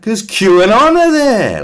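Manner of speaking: slow, loud, pompous declaration; mock official. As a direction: announce it like a straight-faced minister. Voicing the government.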